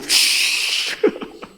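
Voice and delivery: hissing cartoon burst of tears; mock sobbing. Preacher showing another sob after God's word, mock sobbing. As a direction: gush out a comic, wordless sob. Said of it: "Another sobbing".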